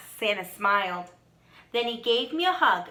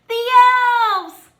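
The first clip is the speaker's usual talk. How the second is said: higher, thrilled exclamation; a kid's delighted cry; excited child; 11 semitones higher, 10 dB louder than usual. A narrator's reading. A child sees the elves, lightly excited cry. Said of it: "shouted one of the children".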